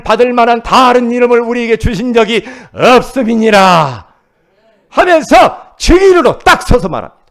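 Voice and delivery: loud, high, driving sermon voice; fervent preaching. Acted. Pastor preaching hard to the congregation, loud. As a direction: preach it out with rising fire.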